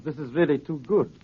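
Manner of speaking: a scornful laugh into the line; mocking laugh. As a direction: laugh him off, amused and dismissive. Blackmailer mocks Holmes's insistence.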